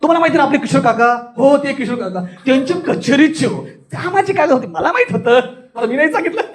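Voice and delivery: amused telling, laughing now and then; moderate comic laughter. Shown as a demonstration. Teacher demonstrating medium comic rasa, chuckling through neighbours' gossip. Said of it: "हे मध्यम".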